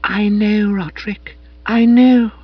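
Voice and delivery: high gushing gurgle; gurgling. A narrator's reading. Madeline moved by Spode, gurgling high. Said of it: "I heard her gurgle".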